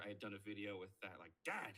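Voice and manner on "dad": lightly voiced Indy calling dad; a hint of Harrison Ford's Indy; Indiana Jones voice. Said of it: "the Don't Call Me Junior".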